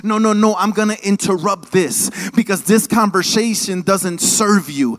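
firm, building divine voice; voicing God. Preacher voicing God interrupting, building to a loud declaration. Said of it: "things that God says".

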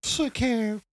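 cartoonish high city-guy bluster, dragging out steaks; mock city loudmouth. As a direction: ham up a slick-haired braggart from the city. Impersonating slick-haired big-talking city guy.

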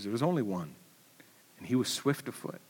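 low large voice. Acted. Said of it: "the voice says".

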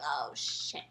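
low, subdued dawning dread; retold sinking realisation. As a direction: deflate as the truth lands. Acted realisation after the denial.

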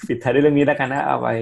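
laughing through the sign-off. Real, not acted. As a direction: wrap it up while chuckling.

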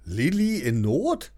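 mildly astonished mum; mother echoes Lilli in Not? in mild surprise; surprised mother. Acted. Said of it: "fragt die Mama erstaunt".

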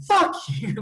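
high-pitched retold scream at a stranger; mock scream. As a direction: blurt it out like a panicked shout. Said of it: "I, like, screamed in her face".

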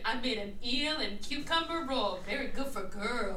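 put-on slow caricature of an Asian accent; stilted, drawn-out mock Asian accent; caricatured Asian accent. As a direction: imitate a hammy old-film Asian accent. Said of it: "like, a Mickey Rooney in Breakfast at Tiffany's Asian accent".

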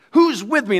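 loud, high rallying call; rallying shout. Retold or imitated. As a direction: fire up the team. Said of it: "Something to that effect".

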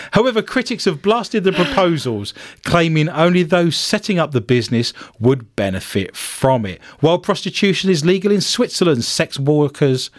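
deadpan news story delivery; news read. Acted. Host reading a bizarre cafe story to co-hosts, news read. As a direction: read it out like a bulletin.

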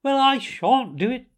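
high, loud defiance; getting excited. A narrator's reading. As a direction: burst out stubbornly. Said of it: "getting excited".

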